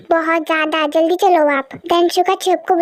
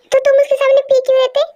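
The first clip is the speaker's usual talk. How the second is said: fast, raised angry retort; angry shouting; 5 semitones higher, much faster than usual. Acted. One singer scolding another again about the drink, fast angry yell. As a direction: fire it off, scolding. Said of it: "आप भी चिल्लाओगे".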